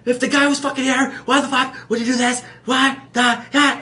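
hammed-up impression of a ranting comic; imitated angry rant. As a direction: hit every word like an exasperated comic. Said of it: "You say every word".

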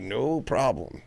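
high, drawn-out "no problem"; retold eager compliance. Man surrendering to armed SWAT team, mock-agreeable. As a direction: give in at once, stretching it out high.

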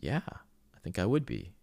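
dad imitating his son's awed answer; voicing young son. Dad voicing his eight-year-old son.

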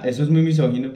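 usual speaking voice

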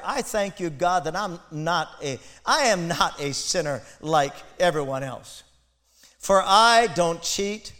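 mock-proud prayer, building to a loud, slow cheat; hammed-up self-righteous boast to God; smug Pharisee prayer. Preacher mimics the Pharisee praying smugly, mock-proud. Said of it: "the Pharisee stood by himself and prayed this prayer".

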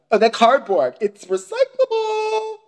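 very high, stretched sing-out on the last words; exaggerated slow, squeaky-high objection; imitated fussy neighbour. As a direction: mimic a scandalized neighbour, pitch soaring. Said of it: "he's like".

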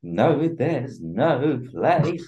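slow, lightly sung rock-star croon; impression of a singer. Impression of the singer for friends, slow mock croon. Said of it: "my singer impression".

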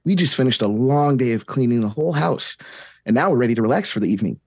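put-on a touch of children's TV host brightness; lightly cheery kids' host. Steve telling the kids it is time to relax, gently cheery. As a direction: chat sweetly to the kids.

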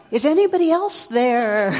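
loud, high panicked call; desperate shout. Retold or imitated. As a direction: yell it out hoping for someone else. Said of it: "And the guy goes".

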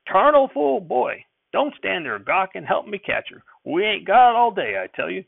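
high, loud, slow exasperated yell. Acted. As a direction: bellow over the barn noise. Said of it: "Grandfather yelling".

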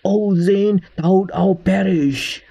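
put-on a Southern hillbilly toilet boss saying old-fashioned lines, slowed on the end; southern accent. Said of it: "who speaks with a hillbilly accent, or rather a southern accent".

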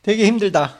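되게 힘들다 said as a native Korean phrase; Korean pronunciation demo. Shown as a demonstration. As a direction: demonstrate 되게 힘들다 in natural Korean. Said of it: "最初韓国語で言ってみる". (한국어 발음 시범)

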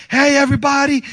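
calling out. Retold or imitated. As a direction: hail the whole room. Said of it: "I tell everybody".

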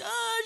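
high, soft mock wail; imitated crying. Recalling the lost girl's crying, imitated high wail. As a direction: mimic a child's cry briefly. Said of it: "she was crying".

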